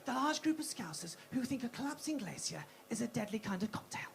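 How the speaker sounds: breathy wildlife narrator, measured; nature documentary narration. Acted. Comedian resuming her wildlife film about her friend, documentary narrator voice. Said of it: "I'll set the scene".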